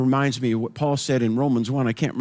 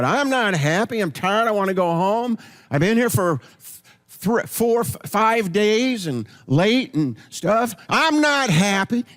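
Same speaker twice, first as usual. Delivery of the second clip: mock grumpy complaint; 5 semitones higher than usual. Acted grumpy reply, tired.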